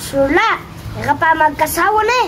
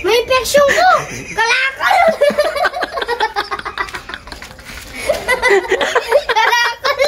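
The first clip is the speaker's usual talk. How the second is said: laughing; 6 semitones higher than usual. Real, not acted. Laughing excited guesses.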